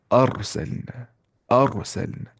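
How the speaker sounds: "अरसलना" with a thick, rounded "ar"; Tajweed heavy ra in "अरसलना"; heavy full R. Shown as a demonstration. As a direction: recite "अरसलना" as aar-salna, R full. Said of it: "तो मोटी आवाज़ से पढ़ना है".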